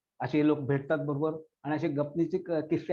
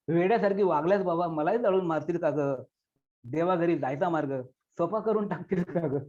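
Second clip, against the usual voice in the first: poem recitation. Acted. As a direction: recite as a daughter addressing her dead mother.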